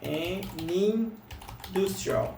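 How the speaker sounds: an industrial said very slowly, run together as one word; an industrial blended as "anindustrial", drawn out; an industrial ligado como um bloco, bem devagar; linked sound block. Shown as a demonstration. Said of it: "é quase como se ela falasse assim".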